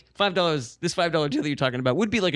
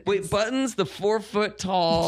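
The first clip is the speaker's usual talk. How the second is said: incredulous; 6 semitones higher, slower than usual. Real, not acted. Incredulous question about Buttons.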